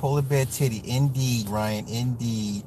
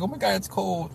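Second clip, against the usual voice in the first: mock Californian; 4 semitones higher, 6 dB quieter than usual. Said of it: "Californians be like".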